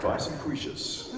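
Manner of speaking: slow, laughing mock commercial pitch. Joking the name sounds like ironing spray, slow mock ad. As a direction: sell it like a cheesy TV ad. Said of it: "something that you'd spray on your ironing pile".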